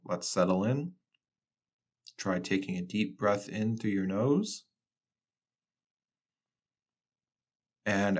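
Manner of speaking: calm, unhurried guidance with long pauses; guided meditation. Acted. Researcher guiding a floater to settle in, calm meditation voice. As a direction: ease the listener into settling, quietly.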